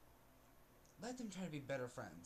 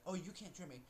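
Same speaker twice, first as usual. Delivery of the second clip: bossy mock voice; 4 semitones higher than usual. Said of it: "you're like".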